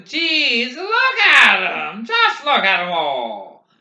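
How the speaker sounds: high, full-voiced excited yell. A narrator's reading. Barker gaping at the first real crowd, yelling. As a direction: yell out in amazement, pitch sailing up. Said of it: "Barker yelled".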